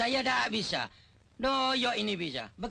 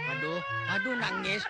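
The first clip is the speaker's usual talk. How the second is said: very high yelped aduh aduh; high panicked cry over a wailing baby. Acted. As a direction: yelp it in alarm.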